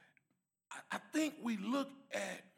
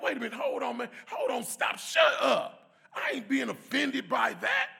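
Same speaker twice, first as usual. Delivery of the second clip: retold heated retort; 5 semitones higher, 10 dB louder than usual. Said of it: "I was like".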